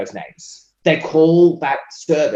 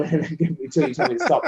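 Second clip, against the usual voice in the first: laughing. Real, not acted. Joking about not stopping talking.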